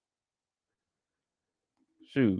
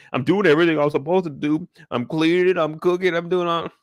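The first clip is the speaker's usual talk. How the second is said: a touch higher, whiny list of chores; mock pleading husband; 5 semitones higher than usual. Husband pleading that he cooks and cleans: lightly mocked whine. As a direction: ham up a needy husband's plea. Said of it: "Emmett is in sucker mode".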